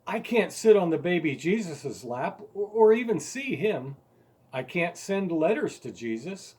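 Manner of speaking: put-on a boy arguing harder and harder with Dad. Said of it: "growing louder and much more determined".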